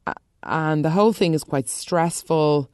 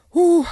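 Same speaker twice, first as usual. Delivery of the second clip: high whew; 13 semitones higher, 6 dB louder than usual. Real, not acted. Blowing off steam.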